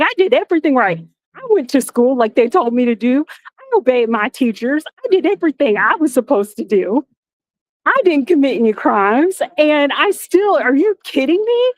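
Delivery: quick protest rising to a high are you kidding me; building mock outrage. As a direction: pile up the complaints and climb. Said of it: "But I'm like".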